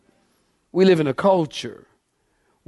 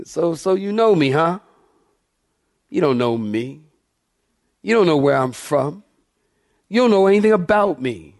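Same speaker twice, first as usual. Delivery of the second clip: mildly sarcastic retort, acted out. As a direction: challenge their claim with dry sarcasm. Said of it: "there's a tone of sarcasm here".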